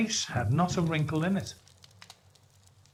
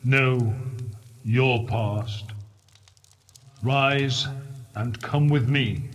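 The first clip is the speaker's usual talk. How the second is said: low ghost voice; 3 semitones lower, slower than usual. Acted. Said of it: "soft and gentle, singularly low".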